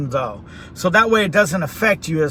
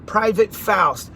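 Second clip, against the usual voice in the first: drawn out slowly as he writes it; slow spelling out; slower than usual. Retold or imitated. Slow, deliberate. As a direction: sergeant writing a name down, slowly. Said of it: "he writes".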